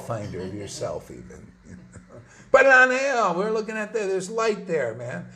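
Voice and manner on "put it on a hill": "Put it on a hill" called out loud and high, "put" hit hardest; loud exhortation. Real, not acted. Preacher rallying his listeners, loud and forceful. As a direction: urge them, full voice.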